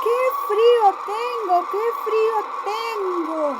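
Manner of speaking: high, loud, trembling bunny voice; a small rabbit shaking with cold, crying out; shivering little rabbit. Acted. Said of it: "temblaba y decía". (conejito tiritando, voz aguda y fuerte)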